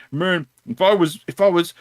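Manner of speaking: threatening customer. Retold or imitated. Customer squares up to the employee, mock threatening. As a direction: mimic a customer working up a threat.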